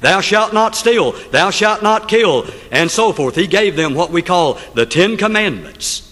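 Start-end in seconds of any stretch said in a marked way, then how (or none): 0.0-2.5 God's thundering voice. Acted. Preacher voicing God to the congregation, mildly booming. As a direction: proclaim the commandments as God, measured and grand. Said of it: "God's voice thundered".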